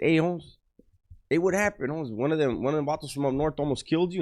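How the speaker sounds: put-on pressing the old-timer for the story; surprised questioning. Young inmate asks older homie about the attack, high and amazed.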